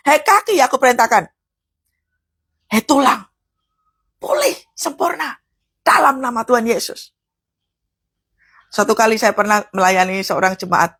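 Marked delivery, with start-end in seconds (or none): 0.1-7.1 prayer of command. Shown as a demonstration. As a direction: order the body with authority. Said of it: "Tetapi waktu engkau berdoa di dalam nama Tuhan Yesus".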